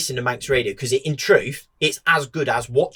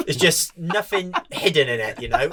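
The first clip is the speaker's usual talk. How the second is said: lively retold persuading; 4 semitones higher than usual. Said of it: "I was like".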